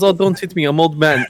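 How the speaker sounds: put-on high, whiny old man plea; mock old man. Old wrestler pleading not to be hit, lightly whiny. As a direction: play the frail old man, mockingly. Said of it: "He goes".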